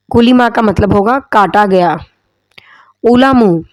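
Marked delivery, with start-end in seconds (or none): 3.0-3.6 whispered demo word. Shown as a demonstration. Tajweed teacher to students, whispering علمو as an example. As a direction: whisper the word علمو as a voiceless ulamu, falling at the end. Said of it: "علمو کا مطلب ہوتا ہے قلم".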